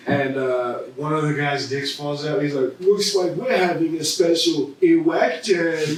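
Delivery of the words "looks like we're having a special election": hammy one-liner. Retold or imitated. One-liner in mock movie.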